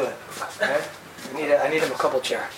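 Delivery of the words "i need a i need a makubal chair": lightly voiced kabbalist, a bit lower; low, hesitant put-on mystic voice; mock kabbalist voice. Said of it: "I'm not so good at this".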